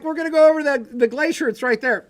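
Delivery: mock eager hiker. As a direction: act like the glacier is a stroll away. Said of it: "You're like".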